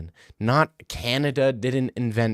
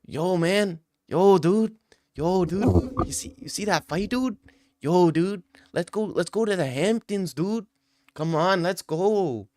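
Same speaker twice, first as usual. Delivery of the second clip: higher, easygoing rich-dude voice; mock a chill billionaire hyping his friend; a higher, hammed-up rich bro calling "dude"; imitating a billionaire bro; 6 semitones higher than usual. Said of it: "billionaires being like".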